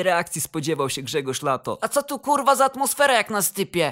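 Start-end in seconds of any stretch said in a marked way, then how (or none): 1.8-3.9 higher-pitched puzzled question; surprised. A narrator's reading. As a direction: ask in astonishment, voice lifted. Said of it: "zapytał zdziwiony". (zdziwione pytanie wyższym głosem)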